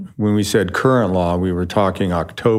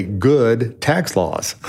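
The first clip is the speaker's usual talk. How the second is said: slow, carefully mouthed words; over enunciating; much slower than usual. Shown as a demonstration. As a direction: spell it out slowly for lip reading. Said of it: "watch my lips".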